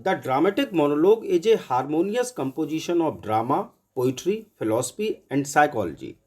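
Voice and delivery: slow, even dictation of a definition; teacher dictating a note to students. Shown as a demonstration. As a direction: read it out slowly so students can copy it.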